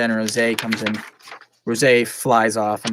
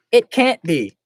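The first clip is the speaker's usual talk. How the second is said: high voice imitating a singer; 5 semitones higher, 6 dB louder, slower than usual. Acted.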